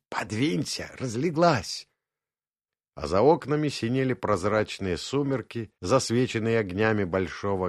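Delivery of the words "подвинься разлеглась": mild stage whisper, teasing; loud whisper. Acted. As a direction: hiss it playfully in the bedroom. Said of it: "громкий шёпот".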